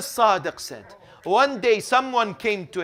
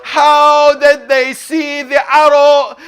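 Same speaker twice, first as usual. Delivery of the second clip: full-force lament preaching; 8 semitones higher, 12 dB louder than usual. A narrator's reading. Preacher asks mourners how angels could bear Karbala, lamenting loudly. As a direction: declaim each question to a grieving crowd.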